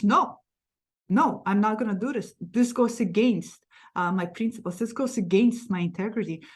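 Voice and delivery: a hint of a defiant woman standing her ground; firm refusal. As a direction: plant your feet and refuse. Voicing the strong refusing self.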